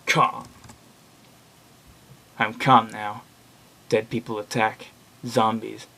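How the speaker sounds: subdued, withdrawn recitation; numb story narration. Acted. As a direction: hold it level and detached, trying to stay calm. Reads disturbed blog post in monotone.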